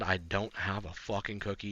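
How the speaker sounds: ordinary talk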